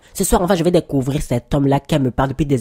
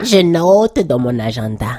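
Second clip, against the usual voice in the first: slow repeat back; 4 dB louder, slower than usual. Acted. Repeating back while writing.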